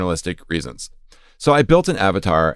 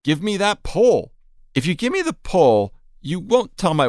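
mock passion; 10 semitones higher than usual. Mock passion at chatbot's features.

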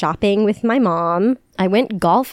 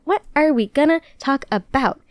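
higher, measured repeat of the question; 4 semitones higher than usual. Real, not acted. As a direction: stretch each word out, playfully. Same question repeated, drawn out.

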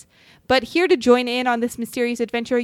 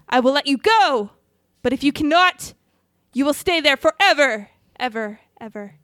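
mad scientist. Acted. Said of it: "that's creepy".

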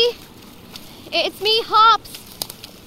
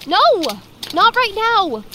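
urgent no. Acted. Stopping child from running off.

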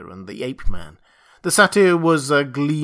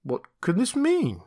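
alarmed question; 8 semitones higher than usual. Acted. Montgomery finds gnawed rabbit.

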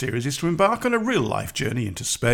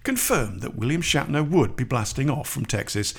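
mild news anchor voice. Retold or imitated. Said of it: "a majority of them still say".

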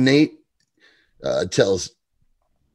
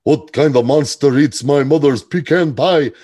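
mock outraged yell, a bit louder; hammed-up indignant roommate; Jax's outrage; 3 semitones higher, 6 dB louder than usual. Jax yelling at nobody about his mother's pie, mock outrage. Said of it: "he goes".

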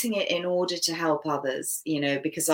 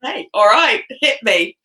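higher and louder, game for it; eager; 5 semitones higher, 7 dB louder than usual. Real, not acted. Guest eagerly accepting the host's rapid fire round, excited. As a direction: bring it on, ready for the challenge.

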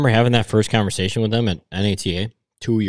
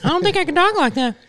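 much higher, fast squeaky cartoon voice; Mickey Mouse voice; faster than usual. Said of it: "Mickey Mouse over here".

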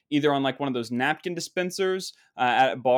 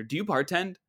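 snooty, higher-pitched question; high and mighty; 5 semitones higher than usual. Retold or imitated. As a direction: mimic a condescending customer. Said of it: "The tonality of it all is so bad".

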